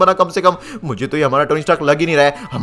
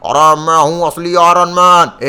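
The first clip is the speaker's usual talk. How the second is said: slow, drawn-out villain boast; menacing impostor; 2 semitones higher, 5 dB louder, slower than usual. Acted. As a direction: announce yourself like a supervillain. Rival Iron Man announces himself.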